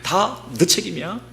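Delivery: high, increasingly loud angry accusation; defiant confrontation. Acted. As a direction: act out an angry crowd turning on their leader, pitch climbing to a shouted order. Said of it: "막 대들고 싸운 거예요".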